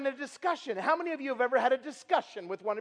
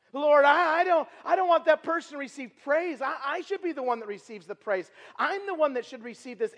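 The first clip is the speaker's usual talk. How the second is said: mock selfish prayer; 3 semitones higher, 5 dB louder than usual. Mock prayer of envious heart.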